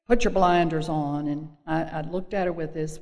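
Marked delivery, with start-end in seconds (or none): 0.1-1.3 put-on a raspy old-timer's advice. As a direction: gravel it out like her. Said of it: "She had this real raspy voice".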